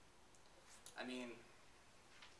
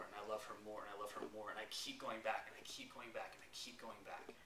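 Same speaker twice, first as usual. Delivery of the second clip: repeated phrase growing softer down to a whisper; fading to a whisper; 2 semitones lower, 5 dB quieter than usual. Real, not acted. A husband realizing his endless love, fading to a whisper. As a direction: let it die away into a breath.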